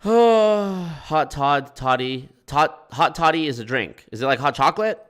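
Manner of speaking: stuffy blocked nose; talking through a blocked nose. Real, not acted. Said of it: "Can't breathe through my nose either".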